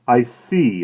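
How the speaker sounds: a lightly voiced smooth shopkeeper; polite, professional inquiry; florist's voice. A narrator's reading. Florist asking the woman about flowers, smooth.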